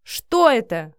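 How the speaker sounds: angry bark demanding an answer. Acted. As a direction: bark the question at her. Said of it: "рявкнул мужчина".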